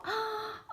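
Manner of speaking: quick, high gasp of surprise; delighted gasp. Real, not acted. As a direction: gasp softly at a lovely surprise. Delighted surprise opening a card.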